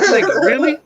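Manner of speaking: high-pitched disbelief, fast and worked up; flipping out. Retold or imitated. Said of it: "I flipped the fuck out".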